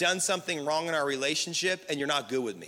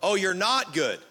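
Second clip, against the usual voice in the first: spiralling rant; 3 semitones higher, 6 dB louder than usual. Retold or imitated. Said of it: "And you're like".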